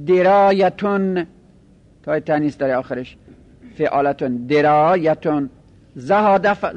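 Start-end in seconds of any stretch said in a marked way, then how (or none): 5.9-6.5 زهاده with a short a after the opening z; fatha on the first letter. Shown as a demonstration. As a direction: say زهاده as "zahada", first vowel a. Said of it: "زالش فتحه داره".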